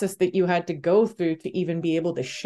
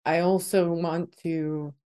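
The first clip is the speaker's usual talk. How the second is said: emotional, softer, holding back tears; choked up; 4 dB quieter than usual. Real, not acted. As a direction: thank them through a tight throat. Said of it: "sorry, I'm getting a bit choked up".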